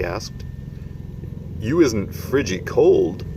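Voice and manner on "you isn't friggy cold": lightly voiced friendly giant; kindly giant asking after a child; BFG giant voice. BFG voice in story reading.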